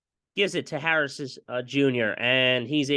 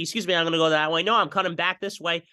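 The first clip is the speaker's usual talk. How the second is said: 1 cheeky fast receiver voice; 4 semitones higher, faster than usual. Pretend. Voicing the receiver faking out.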